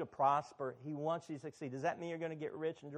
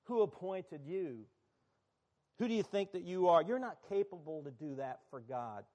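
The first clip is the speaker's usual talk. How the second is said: accusing inner voice. Acted. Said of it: "when you hear a voice that says".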